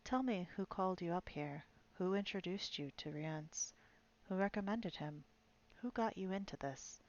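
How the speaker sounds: a lightly voiced soft, coaxing reassurance; gentle soothing voice. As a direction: coax the dying man gently to talk. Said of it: "a quiet, gentle, soothing voice".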